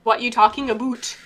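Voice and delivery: put-on "about" said like "a boot", Midwestern-Canadian accent. Joking on her Minnesota roots, Midwestern-Canadian accent. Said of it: "A boot".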